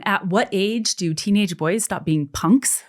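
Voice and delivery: slow, exasperated question to her husband. Retold or imitated. Mother asks husband about their teen son, slow and exasperated. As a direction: drag it out, fed up with the teen. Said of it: "I called my husband and I went".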